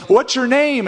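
high, chatty question; curious traveler. Retold or imitated. Caravan traveler asking Abram his name, high chatty voice. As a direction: ask it like a nosy friendly stranger. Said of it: "and they'd say".

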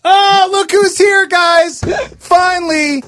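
big booming announcer welcome. Acted. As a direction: hype it up like a host. Mock grand welcome of latecomer.

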